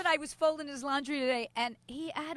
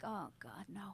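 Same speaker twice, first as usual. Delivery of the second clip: mock dismay; 8 semitones lower, 17 dB quieter, slower than usual. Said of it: "I'm like".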